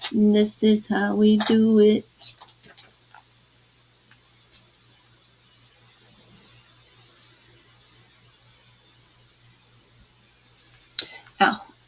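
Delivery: pained, wincing voice. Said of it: "I'm wincing in pain".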